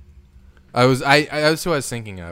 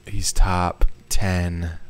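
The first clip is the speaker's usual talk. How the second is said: slow insistence; 3 semitones lower, 6 dB louder, much slower than usual. Real, not acted. Arguing ranking.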